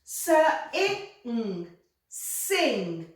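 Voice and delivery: S, i rising, ng falling into Sing; blending. Shown as a demonstration. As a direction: join sounds into Sing. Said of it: "You read it".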